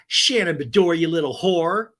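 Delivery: retold teasing greeting. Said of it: "Tamara says".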